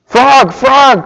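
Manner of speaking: excited cry. A narrator's reading. Toad calls Frog to taste cookies, excited cry. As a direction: call out to a friend. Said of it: "cried Toad".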